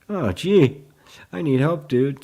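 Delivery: high, loud mock exclamation; mock plea. Teacher reading out a student's message, loud mock plea. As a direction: blurt it out in playful dismay. Acting out the creeping conditioned thought.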